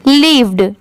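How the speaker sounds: "lived" said with a clear final d; final d sounded. Shown as a demonstration. Teacher showing students the d at the end. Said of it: "इसको क्या पढ़ेंगे".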